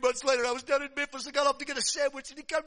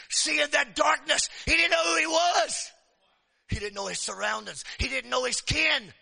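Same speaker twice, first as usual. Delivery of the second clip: preaching at full force; 3 semitones higher than usual. Acted. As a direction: hammer the point home to the congregation. Preacher driving the point home.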